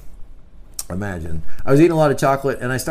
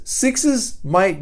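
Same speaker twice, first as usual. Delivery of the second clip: ordinary talk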